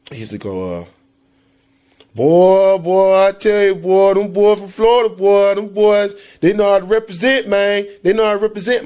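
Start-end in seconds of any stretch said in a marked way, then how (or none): 2.1-8.8 Mississippi accent impression. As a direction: imitate a Mississippi quarterback. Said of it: "let me see if I can imitate".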